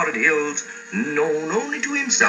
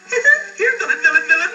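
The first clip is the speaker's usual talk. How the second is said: shouting much higher, summoning; much faster than usual. Acted. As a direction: holler for him to come out. Calling out for the villain.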